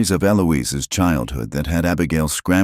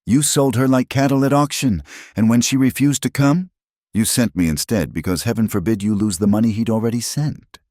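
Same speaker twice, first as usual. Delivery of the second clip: angry; 7 semitones higher than usual. A narrator's reading. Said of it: "suppressed anger breaking free".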